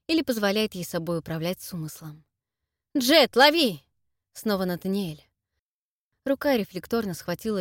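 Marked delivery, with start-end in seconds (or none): 2.9-3.8 loud call across the room. Acted. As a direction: shout as you throw. Nathaniel throwing the amulet.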